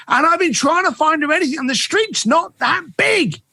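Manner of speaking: high, fretful rush of worry. Retold or imitated. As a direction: play the flustered client, voice climbing high. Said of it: "she was very flustered".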